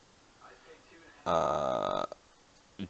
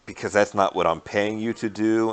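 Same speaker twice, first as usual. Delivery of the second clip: put-on Russian accent; 2 semitones higher, 3 dB louder than usual. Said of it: "in a very Russian accent be like".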